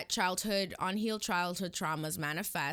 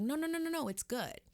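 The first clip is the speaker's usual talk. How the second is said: mock eager reassurance; 10 semitones higher, faster than usual. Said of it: "so that they're like".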